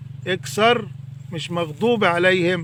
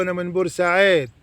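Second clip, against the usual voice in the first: put-on Port Said accent; faster than usual. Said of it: "الجماعة بتوع بورسعيد بيقولوا".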